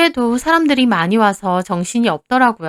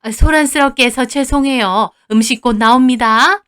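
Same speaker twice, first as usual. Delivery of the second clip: smiling to customers; 2 semitones higher, 3 dB louder than usual. Acted. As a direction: switch to a pleasant apology. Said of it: "얼굴을 싹 바꾸고 웃으면서". (웃으며 상냥하게 사과하는 말투)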